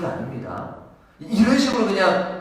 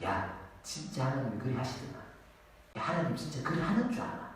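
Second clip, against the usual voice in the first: soft, sly tempter voice, quieter; 2 semitones lower, 12 dB quieter than usual. Acted. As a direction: coax him into doubt like the serpent. 사탄의 유혹하는 말. (나지막이 의심을 부추기는 사탄 목소리)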